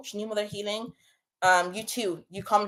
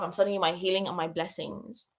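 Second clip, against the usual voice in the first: tearful; 4 semitones lower, 6 dB quieter than usual. Real, not acted. Streamer crying while sending love to her viewers. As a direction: let the blessing dissolve into crying. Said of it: "I'm not even getting emotional right now".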